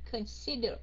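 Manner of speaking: consider with the accent on SI; stress on second syllable. Shown as a demonstration. Teacher repeating for students, consider stressed on SI. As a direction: lean on the middle of consider. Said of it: "Second syllable".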